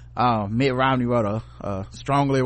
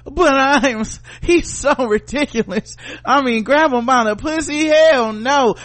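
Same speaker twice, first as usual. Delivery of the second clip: much higher, louder scandalized voice; mock prissy Republican; 10 semitones higher, 6 dB louder, slower than usual. Mocking Republicans' fake outrage at Trump, high and loud. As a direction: clutch your pearls.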